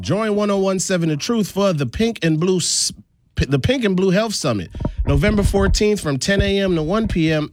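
upbeat event promo read; radio ad read. Acted. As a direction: read it out like a local radio spot.

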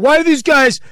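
mock the critics while laughing; laughing mock complaint. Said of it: "social media sphere of going".

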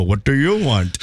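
slow, drawn-out demand; retold phone retort. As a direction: draw out each word at the pesky caller. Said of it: "I usually go".

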